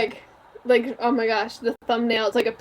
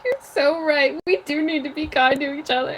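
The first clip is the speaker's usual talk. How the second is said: slightly raised, touched voice ending in a laugh; mock tearing up; 4 semitones higher than usual. Fan answering a kids' show moral, mock tearing up. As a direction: play lightly at being moved to tears. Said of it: "tearing up, like".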